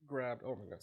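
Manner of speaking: hiccuping mid-word; a hiccup breaks the word. Real, not acted. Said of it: "I got the hiccups now".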